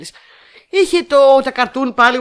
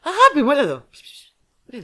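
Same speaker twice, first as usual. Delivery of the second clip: higher-pitched, coaxing call to a pet; calling the cat; 5 semitones higher than usual. Real, not acted. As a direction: coax your cat to come over. Calls her cat over. (γλυκό κάλεσμα στη γάτα)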